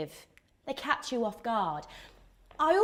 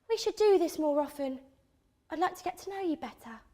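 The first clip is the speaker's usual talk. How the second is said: softer, higher tentative come-on; brotherly guy flirting; 4 semitones higher, 4 dB quieter, faster than usual. Acted. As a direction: act out a friend quietly angling for a date. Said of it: "he says".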